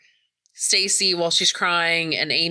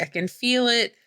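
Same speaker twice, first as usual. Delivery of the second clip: higher-pitched, mildly distressed insistence; mock crying plea; 7 semitones higher than usual. Crying Stacy insisting to her friends, mock tearful plea. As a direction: imitate a tearful woman insisting. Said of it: "crying and saying".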